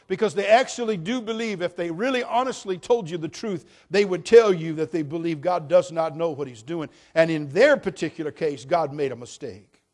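loud, driving preacher's build; full-force preaching. Acted. Pastor preaching loudly at the congregation. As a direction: hammer the point home to the church.

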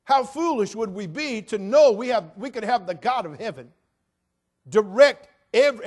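loud, emphatic sermon delivery; preaching at full force. Acted. Pastor preaching to the congregation about God's perfection, loud and emphatic. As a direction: proclaim it to the whole congregation.

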